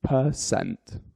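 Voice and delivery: "Percent." drawn out, syllable by syllable; model pronunciation. Shown as a demonstration. Teacher modelling the word for learners, drawn-out pronunciation. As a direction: say "Percent." in two separate syllables, per and cent. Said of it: "follow it with the word".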